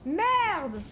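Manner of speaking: sudden loud swear; shouted curse. Real, not acted. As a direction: yell it in alarm. Sudden danger in game.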